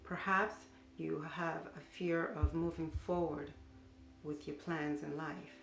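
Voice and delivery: unhurried body-scan guidance with long pauses; guided meditation. Acted. Teacher leading listeners through a mindful body scan, guided meditation.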